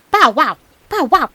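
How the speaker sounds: loud bark-like woof; barking dog. A narrator's reading. Greyhound jumping at the meat, loud barking. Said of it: "sniffing and barking".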